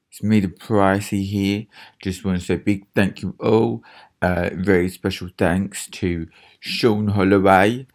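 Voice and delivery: reading the Patreon names as a lightly voiced Katie Price; hint of Katie Price gushing over fans. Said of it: "might read them out like Katie Price".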